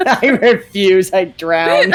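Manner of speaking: loud, slow, laughing mock refusal; stubborn princess voice. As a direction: voice the stubborn swimmer. Voicing the stubborn character.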